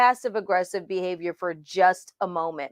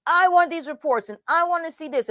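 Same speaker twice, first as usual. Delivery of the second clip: demanding boss, pitched higher; heavy-handed boss; 6 semitones higher than usual. Retold or imitated. Mentor mimicking their own angry-day demands to the team, bossy and higher. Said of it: "You're gonna be the heavy-handed leadership".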